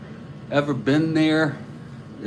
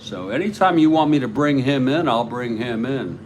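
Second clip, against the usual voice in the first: quick, punchy New York accent. Shown as a demonstration. Manager offering to bring in Miyamori, New York accent. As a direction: say it like a born-and-raised New Yorker. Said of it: "Yeah, it's a New York accent".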